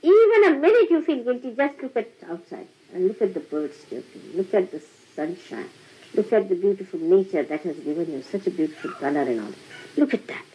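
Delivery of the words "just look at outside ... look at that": soft and gentle. Real, not acted. Gentle invitation to look at nature.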